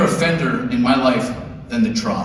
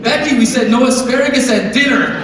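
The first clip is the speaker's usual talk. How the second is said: put-on tipsy girls teasing at the bar; loud mock party-girl shrieks; rowdy drunk women; 10 semitones higher, 4 dB louder than usual. Imagined women at trough.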